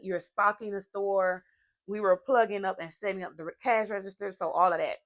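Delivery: talking around a retainer; speech through a dental retainer; wearing a retainer. Real, not acted. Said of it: "I'm sorry, I have my retainers".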